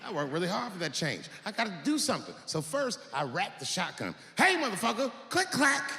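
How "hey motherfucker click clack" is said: threatening shout. Retold or imitated. Homeowner confronting the burglar, menacing shout. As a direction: yell it at the intruder. Racks shotgun at intruder.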